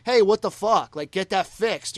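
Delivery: loud, high mock yell; retold yelling. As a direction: imitate an annoyed singer yelling offstage. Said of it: "and just yelling".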